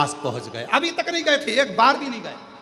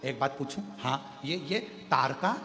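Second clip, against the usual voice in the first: softer, confiding voices; hushed private talk; 7 dB quieter than usual. Acted. (एकांत में धीमी बातचीत)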